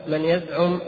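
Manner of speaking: normal talking voice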